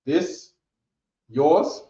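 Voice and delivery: "This, yours?" rising, pause between; question tune. Shown as a demonstration. Teacher showing the student the direct question. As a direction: ask "This, yours?" with a rise on each word. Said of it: "you'll just be like".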